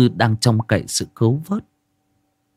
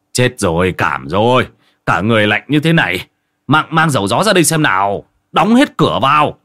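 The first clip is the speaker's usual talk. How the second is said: put-on urgent old man's orders, rising louder; old man calling out; 3 semitones higher, 3 dB louder than usual. A narrator's reading. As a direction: hurry the neighbours to help. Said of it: "một ông già kêu lên".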